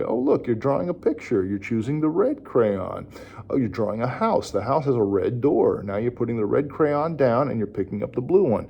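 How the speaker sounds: put-on lightly sportscaster-like narration for a child; play-by-play parallel talk. Shown as a demonstration. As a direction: narrate each action with a hint of commentary. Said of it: "again, like a sportscaster. You're giving the play-by-play".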